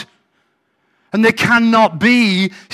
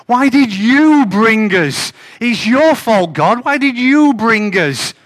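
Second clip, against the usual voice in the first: whiny, louder accusing whine; blaming crybaby; 3 semitones higher, 4 dB louder than usual. Acted. Joshua blames God, mock whiny and loud. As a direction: throw the blame at God like a sulky child. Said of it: "Notice the instant blame".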